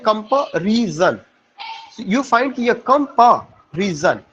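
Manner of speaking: "कंपैरिजन" split slowly as "कंपा" then "रिजन"; syllable break demo. Shown as a demonstration. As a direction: pause inside "कंपैरिजन" after "कंपा", teaching the break. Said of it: "कम तो रुकेगा". ("कंपैरिजन" को "कंपा" पर रोककर, धीरे-धीरे)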